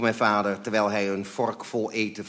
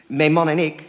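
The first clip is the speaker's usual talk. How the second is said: high, loud, desperate push onward; desperate courage; 7 semitones higher, 10 dB louder than usual. A narrator's reading. Mother forcing herself on with caller, desperate courage. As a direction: press on bravely against despair. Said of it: "met de moed der wanhoop".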